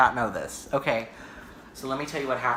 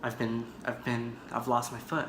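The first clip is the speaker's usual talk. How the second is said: retold shock; 5 semitones lower, 8 dB quieter than usual. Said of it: "I was, like, freaking out".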